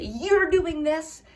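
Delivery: slow, pointed accusation; blaming tone. Shown as a demonstration. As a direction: point the finger with it. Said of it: "it sounds like you're blaming them".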